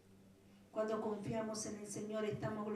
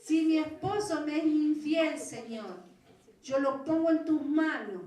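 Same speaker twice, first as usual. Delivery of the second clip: loud, higher pleading prayer to the Lord; fervent retold prayer; 4 semitones higher, 9 dB louder than usual. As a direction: cry it out as a desperate prayer. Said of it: "mire lo que dije".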